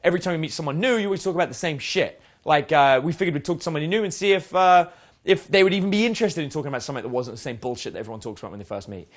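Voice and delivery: loud opener addressing a whole group; loud on the hail, then keep it rolling; attention grabbing. Shown as a demonstration. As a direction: project to grab everyone's attention at once. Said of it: "using the attention grabbing".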